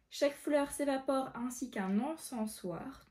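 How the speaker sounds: slow, measured verse; careful recitation of verse; poem reading. Acted. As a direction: read the line out slowly. Reads the poem aloud.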